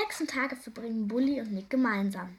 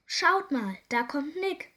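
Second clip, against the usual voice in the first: raised, higher call; a bit louder call to the others; 5 semitones higher, 3 dB louder, slower than usual. Acted. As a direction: call out across the lake. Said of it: "ruft Karl".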